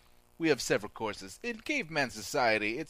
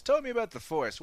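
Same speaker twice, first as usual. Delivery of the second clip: film director; 11 semitones higher than usual. Acted. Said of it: "had a conversation with George Lucas".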